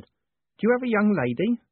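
high, genteel woman's character voice; sweet lady. Acted.

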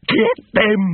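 high loud yelled order; furious yapping. Acted. Big Fido yapping at his dogs, furious high yell. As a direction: shriek it at the pack. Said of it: "Big Fido's furious yapping".

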